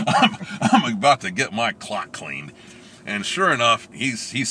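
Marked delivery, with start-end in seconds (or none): 0.1-2.5 laughing. Real, not acted. Laughing while telling.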